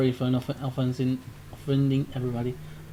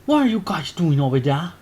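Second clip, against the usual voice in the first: curious shopkeeper; 5 dB louder than usual. Acted. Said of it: "the curious and slightly concerned shopkeeper".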